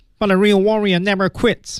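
very high, fast, nose-pinched nasal voice. Showing everyone how to say the line, in a pinched-nose voice. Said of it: "大家捏着鼻子说呀".

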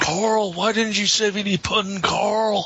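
high, mocking, put-on yell.

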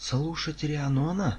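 very high-pitched, shrill shout. Narrator reads Emer's retort: shouted. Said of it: "крикнула Эмер".

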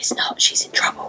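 secret-sounding whisper, close, low and soft. Retelling a scene as Mulder's genie, whispering in his ear: whispering as Mulder's genie. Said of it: "Mulder's genie whispers in Mulder's ear".

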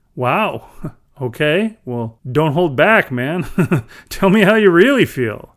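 amused, laughing teasing. Justin answers Zach's outburst about the training with a chuckle. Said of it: "Justin said with a chuckle".

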